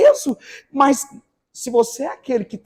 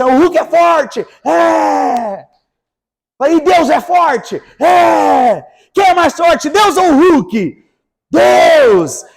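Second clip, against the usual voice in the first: put-on slow, louder questions to children; preaching to kids; 4 semitones higher, 4 dB louder, slower than usual. Pastor retelling school talk, lively quizzing of kids. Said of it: "Eu falei assim".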